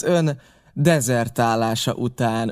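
dezertálása slowed and weighted; pointed emphasis on dezertálása; stress on dezertálása. A narrator's reading. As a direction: lean hard on dezertálása. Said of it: "Különös nyomatékkal ejtette ki a dezertálás szót".

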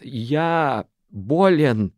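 громко и очень медленно, голос трескается; взреви, ломая голос; рёв с надломом. A narrator's reading. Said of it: "взревел он, и голос его растрескался". (Араф отталкивает Шану: медленный громкий рёв, голос надломлен)

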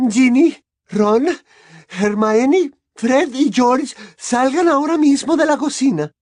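high, loud mother's command; loud ordering. A narrator's reading. Mother sending the children out of the kitchen, commanding. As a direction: call out each name and order them out.

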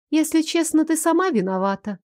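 sharp blaming tone from the villainess; accusing villain. Acted. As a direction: throw the blame at her. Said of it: "вдруг обвинила она меня". (обвиняющий голос злодейки)

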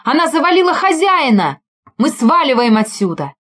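high, loud frantic shouting; panicked yelling. A narrator's reading. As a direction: yell it in panic down the phone. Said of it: "Точнее, заорал".

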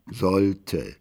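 a distant echo repeating the last word "Sollte."; echo effect. Acted. Narrator's last word "Sollte." echoing back from afar. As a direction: let "Sollte." ring back like an echo in a hall.

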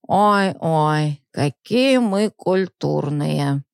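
put-on very slow sneering drunk voice; mock her, slurring. Drunk mocks woman.

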